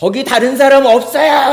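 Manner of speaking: shrill, very high-pitched, loud shout. Retelling a joke's punchline, calling out from a branch: imitating a shout. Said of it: "이렇게 소리쳤다고 합니다".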